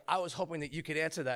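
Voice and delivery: understated, slightly pious reply; overly spiritual. Retold or imitated. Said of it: "overly Spiro there for a moment".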